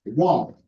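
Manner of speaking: "Warm" leaned on with a falling tune; stress on Warm. Retold or imitated. Host echoing what she said, stressing "Warm". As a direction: put the emphasis on "Warm". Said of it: "Emphasis on warmth".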